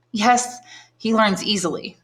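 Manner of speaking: a proud mother accepting praise, slowly; flattered mother. A narrator's reading. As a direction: preen a little over your son. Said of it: "replied the flattered mother".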